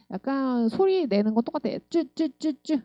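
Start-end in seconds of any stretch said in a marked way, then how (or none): 1.9-2.8 쭈 with T, H and R in one burst; short repeated "쭈", no vowel between the consonants; blended THR. Shown as a demonstration. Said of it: "한 방에 나셔야 되는". (쭈를 한 방에 짧게)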